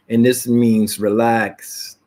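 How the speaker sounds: calm relaxed voice. Shown as a demonstration. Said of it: "When you talk like this".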